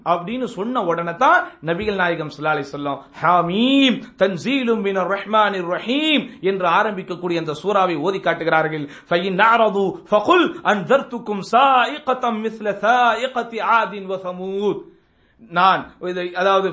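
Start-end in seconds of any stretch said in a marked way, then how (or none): 3.2-6.2 slow, chanted Arabic verse; Quran recitation. Retold or imitated. 9.1-14.8 slow, chanted Arabic verse; Quran recitation. Retold or imitated.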